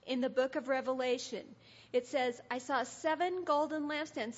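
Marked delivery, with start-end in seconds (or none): 2.5-4.4 louder, emphatic Bible reading; scripture reading. A narrator's reading. Reading John's vision of Jesus, emphatic scripture reading. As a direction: proclaim the verse to the room.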